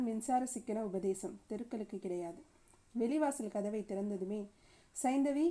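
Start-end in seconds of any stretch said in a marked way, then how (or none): 5.0-5.5 put-on calls the child's name from the doorway, raised; calling out. Mother calling her baby as she enters, raised call. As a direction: sing out the name as she comes home. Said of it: "என்று அழைத்தபடி".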